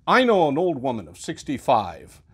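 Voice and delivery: a carpenter muttering complaints; grumbling old carpenter. Acted. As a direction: grumble like a put-upon tradesman.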